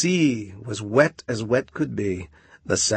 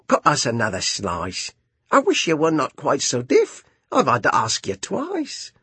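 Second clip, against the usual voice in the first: raised, impatient carpenter voice; gruff carpenter; 3 semitones higher than usual. Acted. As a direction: grumble about the deafness. Carpenter grumbles.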